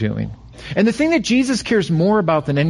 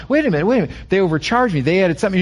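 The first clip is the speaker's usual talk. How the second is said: mock protest, pitched up at first; indignant customer; 3 semitones higher, much faster than usual. Diner protesting the bill to the restaurant, mock indignant. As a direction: object like a diner who spots a billing error. Acted diner spotting an overcharge.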